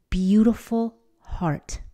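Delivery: slow, hushed whisper; a slow whisper to close the thought. Real, not acted. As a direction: breathe the words out tenderly. Softening the closing words.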